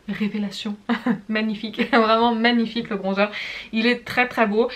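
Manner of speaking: laughs through the praise; a real happy chuckle carrying the words; laughing with delight. Real, not acted. Praising the bronzer to viewers, laughing with delight.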